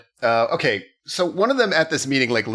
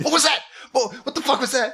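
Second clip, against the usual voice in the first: high, laughing outburst of disbelief; a shocked viewer's laughing squeal; mock disbelief; 13 semitones higher, faster than usual. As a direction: squeak it out, baffled and amused. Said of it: "You're like".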